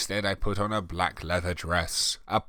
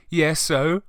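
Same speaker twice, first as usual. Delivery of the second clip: blushing; 8 semitones higher, 4 dB louder than usual. Acted. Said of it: "I said, blushing".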